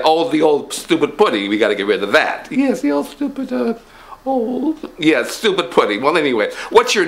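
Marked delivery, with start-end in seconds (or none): 2.5-4.9 higher pompous rich man. Acted. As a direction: puff up as the rich boss.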